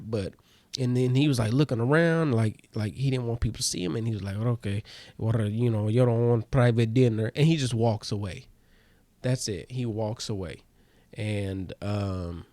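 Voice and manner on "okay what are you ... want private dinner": imitated Russian magician; Russian accent. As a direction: give up on the offer in a Russian accent. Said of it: "He has to be Russian".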